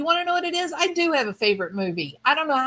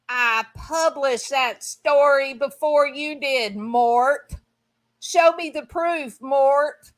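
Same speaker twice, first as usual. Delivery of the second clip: louder, higher, calling Mort out; menacing stalker; 4 semitones higher, 5 dB louder, slower than usual. Acted. The stalker confronting Mort, mock menacing calls. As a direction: stalker from Secret Window, hammed-up threat. Acting out Secret Window stalker.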